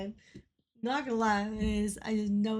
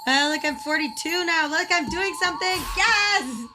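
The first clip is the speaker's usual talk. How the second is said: celebrate, voice climbing as you go; excited celebration; 3 semitones higher than usual. Real, not acted. Streamer celebrating a new rank, excited and building. Celebrating reaching forty-two in game.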